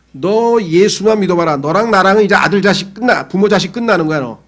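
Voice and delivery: lightly voiced stern mother laying down the law; mild mock threat. Mother threatening her son.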